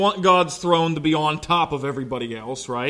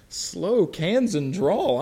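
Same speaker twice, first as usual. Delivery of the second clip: mock disbelief; 5 dB quieter, much slower than usual. Repeats reporter's description in disbelief.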